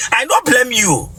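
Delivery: 1 shouting at her. Acted. Bishop scolding the girl.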